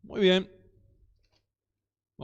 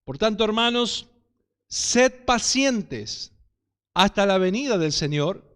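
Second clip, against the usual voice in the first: scripture reading; 2 semitones higher than usual. Acted. Preacher reading James to the congregation, solemn and proclaiming. Reads James chapter five.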